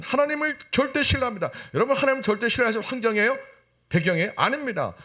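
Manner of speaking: high-pitched, driving sermon delivery; emphatic preaching. Acted. Preacher challenges congregation on trusting God, emphatic preaching. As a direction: press the congregation with urgent high questions.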